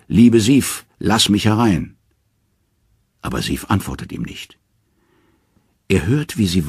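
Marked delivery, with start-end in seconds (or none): 0.1-2.0 loud high call through the door. A narrator's reading. Tired husband calling through the door to his wife, loud and high. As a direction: call out loudly to your wife. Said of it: "Er ruft".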